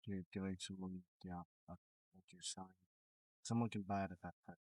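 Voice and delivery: choppy, dropping-out audio; broken-up voice over a bad line; bad connection. Real, not acted. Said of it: "You sound really choppy".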